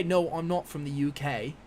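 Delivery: slow, mock British accent attempt; a self-mocking try at a British accent; playful fake British accent; bad British accent. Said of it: "That's probably a really bad accent".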